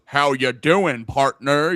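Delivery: put-on an Asian man putting on a cowboy American accent; lightly hammed-up American twang; mild fake cowboy American; mock American accent. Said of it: "Asian dude ... with an American accent".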